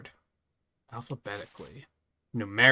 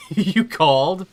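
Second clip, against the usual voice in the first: haughty god voice; 7 semitones higher, 9 dB louder, slower than usual. Acted. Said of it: "He's just like".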